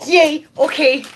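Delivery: high, loud delighted yay; excited cheer. Real, not acted. Streamer cheering a viewer who agreed to dye blue, high and loud. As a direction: squeal with delight.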